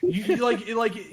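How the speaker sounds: ordinary talk, nothing marked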